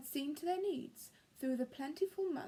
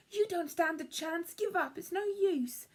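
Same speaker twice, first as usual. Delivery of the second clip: higher, louder taunting squirrel; squabbling taunt; 5 semitones higher, 4 dB louder than usual. Acted. Bruce taunting Cyril during the cone race, raised and scornful. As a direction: brush him off, scornful.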